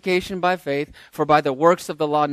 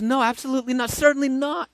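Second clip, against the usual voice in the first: emphatic denial; 8 semitones higher, faster than usual. Acted. Paul rejecting their argument.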